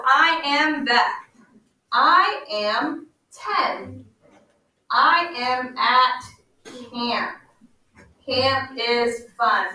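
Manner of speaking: slow read-aloud with gaps between words. Shown as a demonstration. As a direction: read slowly for children pointing at each word. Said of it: "we are going to point to each word".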